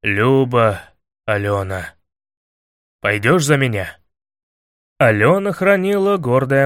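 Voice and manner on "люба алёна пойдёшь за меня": low, subdued declaration of love; heartfelt proposal. A narrator's reading. Илья asking Алёна to marry him, low and heartfelt. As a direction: propose in a lowered voice, pausing on her name.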